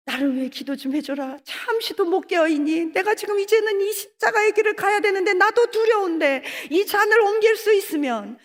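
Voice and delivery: rising, tearful plea to his friends; a frightened, crying prayer. Retold or imitated. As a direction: voice cracking as fear breaks through. Jesus voiced in fear before cross.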